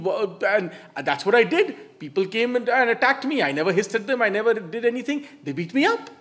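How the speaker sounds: the beaten snake protests to the monk; indignant snake. Retold or imitated. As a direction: let the snake protest, rising in pitch and volume. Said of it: "the indignant snake spoke back".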